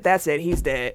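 low, understated announcer quote; lightly imitated sober commentary; The King, serious. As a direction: quote it gravely, no joking. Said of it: "Not in his joking voice".

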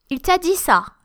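"Il t'a dit ça" starting high, then dropping on "ça"; skeptical falling intonation. Shown as a demonstration. Teacher showing really skeptical or annoyed, falling intonation. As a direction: doubt it, let "ça" fall. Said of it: "I'm really skeptical".

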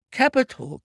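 very high, loud burst of approval; delighted cry. A narrator's reading. Inspector applauding Holmes's deduction, high excited cry. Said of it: "cried the inspector".

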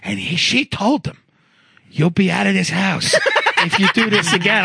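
imitated Long Island Italian-American coworker; mock Italian-American guy telling his troubles. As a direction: put on an Italian-American accent, incredulous complaint. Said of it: "this guy who talked like this, Italian guy".

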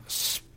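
Spates stretched very long, rising at the end; drawn-out name. Pretend. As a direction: drag out the vowel of Spates. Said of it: "That's how it's pronounced".

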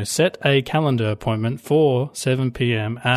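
slow, evenly spaced robotic diction. Retold or imitated. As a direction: spell it out slowly like talking to a machine. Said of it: "doing a robot voice".

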